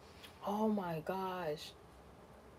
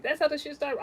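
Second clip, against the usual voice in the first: emphatic repeat; 7 semitones higher, 6 dB louder than usual. Real, not acted.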